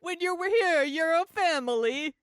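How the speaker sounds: put-on high, loud, hammy Italian accent; sing-song it like a cheesy ad. Olive Garden slogan joke.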